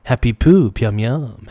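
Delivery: ordinary delivery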